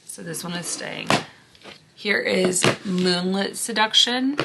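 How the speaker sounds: hoarse voice fading out. Real, not acted. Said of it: "I am losing my voice".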